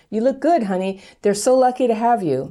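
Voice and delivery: high, sweetly put-on "you look good, honey"; mock sugary compliment. Host mimics a gushing compliment to an abusive ex, sugary. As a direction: coo it like a syrupy partner.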